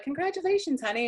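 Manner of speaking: high, sing-out mom congratulations; imitating a proud mother. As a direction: coo it like a mom after the show. Mother greeting after the show.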